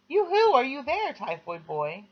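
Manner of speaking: put-on high girlish call. A narrator's reading. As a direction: sing out to the boy next door. Patricia calls again.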